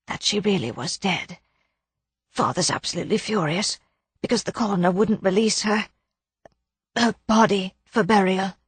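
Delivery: a mild hush of grief; subdued young woman. Acted. Muriel's subdued voice.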